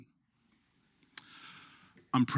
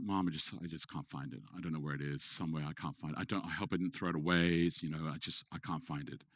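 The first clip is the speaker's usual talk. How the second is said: much softer, lower, sorry son; remorseful; 5 semitones lower, 8 dB quieter than usual. Retold or imitated. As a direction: confess it quietly to mom. Son confessing lost gift to dying mother.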